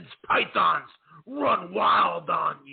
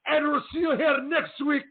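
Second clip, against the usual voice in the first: put-on high, accented wrestling promo sign-off; Iron Sheik impression; 7 semitones higher than usual. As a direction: wish the fans a good weekend as the Sheik. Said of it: "I could close out the broadcast".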